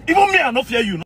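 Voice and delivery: defiant. Real, not acted. Defying the general.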